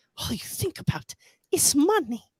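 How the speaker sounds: put-on, breathy, half-whispered voice with real anger. Quoting a line in her voice, an angry Greta Thunberg impression. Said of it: "You got to hear it in her voice".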